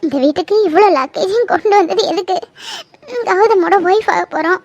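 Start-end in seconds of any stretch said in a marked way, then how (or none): 3.3-4.6 tearful. Acted. Bride sobbing alone.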